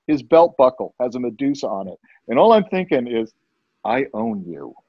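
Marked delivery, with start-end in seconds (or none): 3.8-4.8 low, quiet certainty; menacing inner thought. Retold or imitated. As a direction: say it softly and deep, to yourself. Private thought facing the manager.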